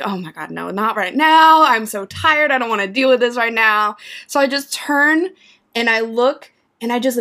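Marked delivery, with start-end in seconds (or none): 0.0-4.0 annoyed. Retold or imitated. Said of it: "I'm like".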